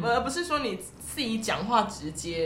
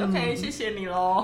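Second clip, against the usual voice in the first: gentle; 4 semitones lower, slower than usual. Real, not acted. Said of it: "变得很温柔".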